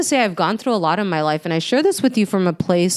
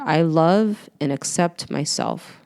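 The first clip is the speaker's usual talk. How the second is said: slow, tender self-affirmation; slower than usual. Shown as a demonstration. Coach leading listeners in a self-love affirmation, slow and tender. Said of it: "Let's repeat it again together".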